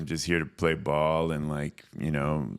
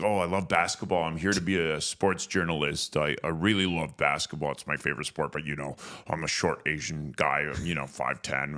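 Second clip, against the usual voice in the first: imitating Tom. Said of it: "That's how he talks".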